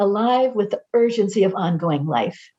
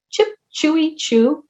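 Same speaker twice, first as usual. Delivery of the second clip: Chip, chewy chirped higher; warbler call imitation; 6 semitones higher than usual. Speaker mimics the warbler's chirping call, higher. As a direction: pipe it up like a small warbler. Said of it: "McGillard race warbler".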